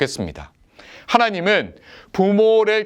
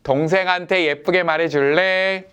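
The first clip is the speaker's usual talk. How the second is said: gentle request. Shown as a demonstration. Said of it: "일 번".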